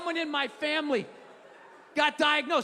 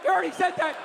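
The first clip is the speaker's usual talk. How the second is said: mock heckle; 2 semitones higher, 3 dB louder, faster than usual. Mock heckling the old man.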